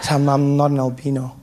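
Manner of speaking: low, halting admission; stammered confession. Acted. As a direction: repeat it sheepishly, stumbling on the first word. Stammered confession, asked to repeat.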